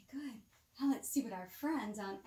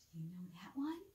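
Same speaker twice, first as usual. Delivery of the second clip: soft unvoiced whisper, much softer; 4 semitones lower, 6 dB quieter, much faster than usual. Real, not acted. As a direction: whisper it like a bedtime secret. Bedtime whisper to child.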